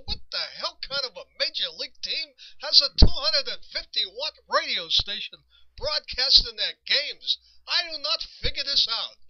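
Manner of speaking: retold dad fuming at the broadcast; hammed-up angry fan; mock grumbling outrage. Dad complaining about radio station.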